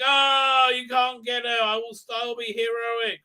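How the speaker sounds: high, hammed-up heroic declaration; mock heroic. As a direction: play a wailing would-be hero. Acts out character's heroic protest.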